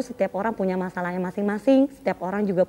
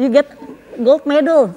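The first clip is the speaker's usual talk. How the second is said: loud, higher-pitched announcement; retold excited shout; 5 semitones higher, 7 dB louder than usual. Mother telling her son he won gold, excited shout. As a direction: reenact shouting out thrilling news. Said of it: "Saya sampai teriak gitu loh".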